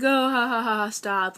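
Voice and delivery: a laughing "stop" that waves the news away; laughing brush-off. Retold or imitated. Mom laughing off her daughter's joke, mock laughing. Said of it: "she's like".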